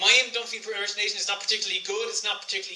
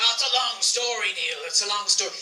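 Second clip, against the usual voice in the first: dad's voice; 4 dB louder than usual. Retold or imitated. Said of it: "That's not actually what he sounds like".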